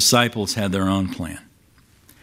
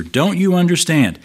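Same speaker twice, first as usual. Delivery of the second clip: higher, exasperated plea; frustrated; 6 semitones higher than usual. Retold or imitated. Jesus pressing the disciples in the boat, exasperated. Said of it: "hear the frustration here in Jesus' voice".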